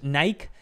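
"Nike" as one syllable, no final vowel; Spanish-style English pronunciation. Shown as a demonstration. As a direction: say "Nike" like "naik". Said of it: "¿por qué el español dice Nike?".

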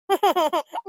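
stuttering staged boo-hoo; acted sobbing. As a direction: sob in quick bursts, hammed-up. Captive child crying to go home.

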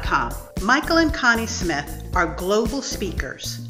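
measured, emphatic ad read; sponsor read. Acted. Host reads the episode's sponsor message, deliberate announcer style.

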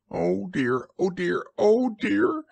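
high, fretful little creature voice; worried Piglet. A narrator's reading. Timid Piglet frets to himself nearing the trap, high and worried. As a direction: fret to yourself in a high voice. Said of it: "said Piglet to himself".

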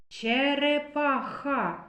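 Черепаха slowed, stretching the х; drawn-out sound analysis. Shown as a demonstration. Teacher to class, slowly sounding out Черепаха. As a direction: drag out the х in Черепаха. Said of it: "Робимо звуковий аналіз слова".

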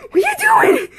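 very high, pleading shout at her brother; desperate yell. Retold or imitated. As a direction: cry out to Jacob in mock despair. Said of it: "I'm like".

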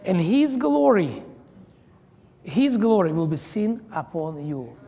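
slow, swelling pulpit proclamation; full preacher's cadence; preaching. Acted. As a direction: proclaim it to the congregation.

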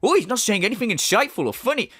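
mimicking the streamer. Parodist quoting the streamer's criticism back at him, mock complaining. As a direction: imitate his griping, mockingly. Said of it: "So you going like".

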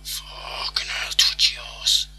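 hushed, breathy-free whispered curse; tense whisper. Real, not acted. Gamer whispering while watching a nervous penalty shootout. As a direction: whisper it under your breath in dread.

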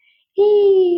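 high puzzled exclamation; puzzled surprise. Acted. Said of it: "ว่าแบบ". (อุทานเสียงสูงด้วยความสงสัย)

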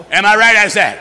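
loud call for a response; preacher calling out to the congregation; shout. Real, not acted. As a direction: shout it out to the room.

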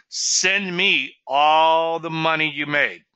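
slow, drawn-out joking demand; mock stern demand. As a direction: lay down the terms with a straight face.

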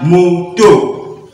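"moto" slowly split as mo, to; syllable by syllable. Shown as a demonstration. Teacher showing learners the blended word, slowly syllabified. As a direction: draw out each syllable of "moto".

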